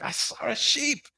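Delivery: sleepy friend answering from bed; dreamy Bora. Retold or imitated. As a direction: drift it out like someone still dreaming. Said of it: "she's like".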